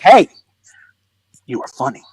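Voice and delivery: hushed, near-whispered aside; furtive compliment. Retold or imitated. Locals sneak over after the show, hushed furtive praise. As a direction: imitate someone praising on the sly.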